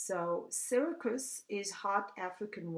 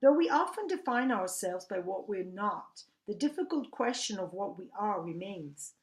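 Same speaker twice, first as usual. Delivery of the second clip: projected, scripted literary commentary; reading commentary aloud; 3 semitones higher, 7 dB louder than usual. Acted. Reader introducing the enigmatic Emily Dickinson, reading commentary aloud. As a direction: read it out like an essay introducing a poet.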